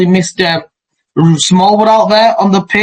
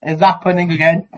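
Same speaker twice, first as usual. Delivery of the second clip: muffled headphone mic sound; distant tinny headset audio; headphones used as mic; 3 dB quieter than usual. Real, not acted. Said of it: "I'm talking through my headphones now".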